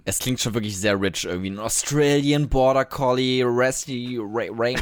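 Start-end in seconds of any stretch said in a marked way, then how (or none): 1.5-4.8 put-on English accent on German. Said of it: "aber einfach nur ein bisschen englisch ausgesprochen".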